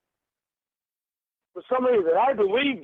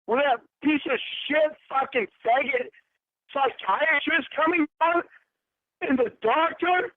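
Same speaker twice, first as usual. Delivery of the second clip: angry; 5 semitones higher than usual. Real, not acted. Furious confrontation over being catfished.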